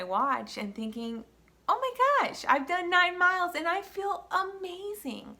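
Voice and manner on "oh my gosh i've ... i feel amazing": much higher and louder, thrilled disbelief; excited thought. Retold or imitated. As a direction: squeal it like you can't believe it's going this well. Excited thought glancing at watch.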